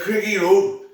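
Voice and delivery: mildly called-out reply, retold. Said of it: "in the loudness and echo".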